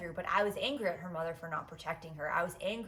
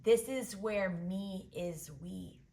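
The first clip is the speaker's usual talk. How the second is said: Biddy's wise answer; much slower than usual. Retold or imitated. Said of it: "And then she goes".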